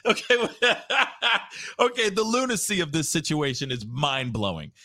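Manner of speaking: can't hold the laugh in; bursting into laughter. Real, not acted. Host cracking up at the absurd call, laughing. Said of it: "I'm sorry".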